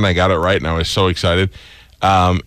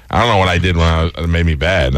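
usual speaking voice

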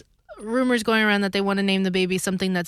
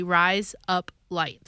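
slow careful say; much slower than usual. Shown as a demonstration. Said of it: "sounds like razor blades".

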